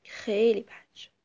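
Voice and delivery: soft whispered regret; a quiet, sorrowful whisper; sad sigh. Acted. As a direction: breathe it out heavily. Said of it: "آه کشید و با ناراحتی گفت".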